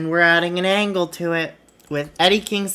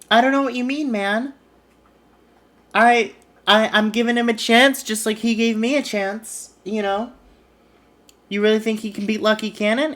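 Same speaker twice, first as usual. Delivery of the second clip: higher-pitched acted protest; defensive; 4 semitones higher than usual. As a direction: plead innocence in a raised voice. Acted promoter defends himself.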